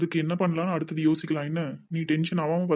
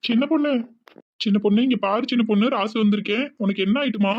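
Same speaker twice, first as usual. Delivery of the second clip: anxious calling out; 4 semitones higher than usual. Acted. Husband frantically calling to his fainted wife, worried. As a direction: shake her awake with worried calls.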